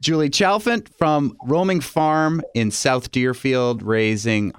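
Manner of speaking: host closing the segment, easy announcer read; radio outro. Acted. Host reads outro over music.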